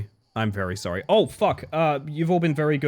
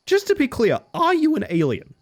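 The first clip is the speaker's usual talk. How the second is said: high, pointed teasing question; 12 semitones higher than usual. Real, not acted.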